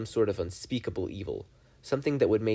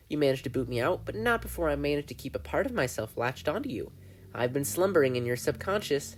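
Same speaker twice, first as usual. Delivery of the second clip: lightly voiced gleeful demon, a bit higher; Bill the demon; 4 semitones higher than usual. Bill explains his return.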